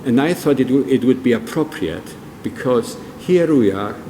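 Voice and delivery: normal talking voice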